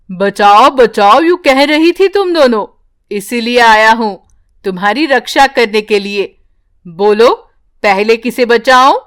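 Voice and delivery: magic tree offering to rescue mother and daughter; magic tree's voice. Acted. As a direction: speak as a kindly magic tree.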